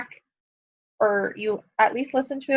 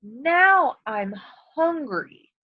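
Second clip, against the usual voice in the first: wolf voice; 3 semitones higher, much slower than usual. Shown as a demonstration. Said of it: "He said".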